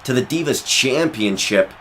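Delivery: high, loud ringside shout; excited commentator. Acted. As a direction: sell the big move to the crowd. Big move and near fall.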